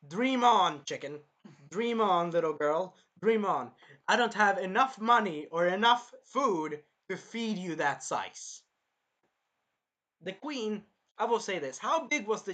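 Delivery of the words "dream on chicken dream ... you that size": loud, emphatic mock refusal; scornful Naofumi. Naofumi refusing to feed the chicken, loud and scornful. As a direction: shoot it down loudly, pitch jumping up. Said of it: "He's basically like".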